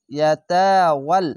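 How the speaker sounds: ইয়াতাওয়াল recited slowly, vowels drawn out; Quranic recitation. Shown as a demonstration. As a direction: stretch each syllable of ইয়াতাওয়াল. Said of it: "ইয়া জবর ইয়া". (ধীরে তিলাওয়াত)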